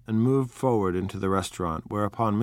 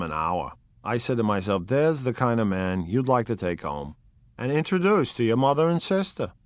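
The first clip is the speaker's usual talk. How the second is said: Wolfsheim; 4 semitones higher, 4 dB louder than usual. Acted. Wolfsheim praises Gatsby.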